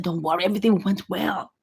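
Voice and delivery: low, soft reassurance; calm reassurance. Acted. Wife reassuring her anxious husband about the task, low and soft. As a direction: settle the listener down quietly, pitched low.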